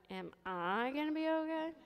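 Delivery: small, anxious question. Retold or imitated. Patient asking the anesthesiologist holding her hand, small soft question. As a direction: ask it quietly, needing reassurance. Frightened patient asks doctor, retold.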